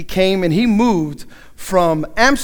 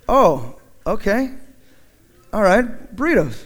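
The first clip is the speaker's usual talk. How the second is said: hesitant acceptance; 4 dB quieter than usual. Retold or imitated. Newcomer to cook about yet another tortilla dish, hesitant. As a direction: accept it with long puzzled gaps.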